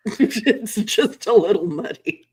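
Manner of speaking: slow, mocking echo of his understatement; sarcastic. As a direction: repeat it slowly, sarcastically. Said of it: "Sure, that's it".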